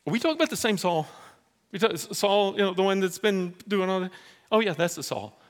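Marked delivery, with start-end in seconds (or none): 0.1-3.2 fast, high disbelief; incredulous. Acted. Ananias questions God in disbelief, incredulous. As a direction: Ananias can't believe who he's sent to. Ananias balks at God's request.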